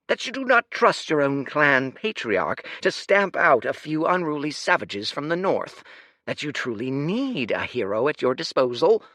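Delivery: a proud ruler proclaiming to a crowd; lordly speech. Acted.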